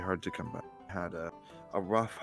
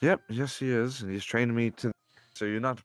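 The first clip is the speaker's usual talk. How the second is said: eager; 4 semitones higher, 6 dB louder than usual. Acted. Character answers eagerly, voice up.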